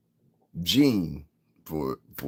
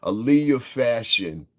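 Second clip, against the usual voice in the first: slow repeat; 5 semitones higher, 4 dB louder, slower than usual. Real, not acted.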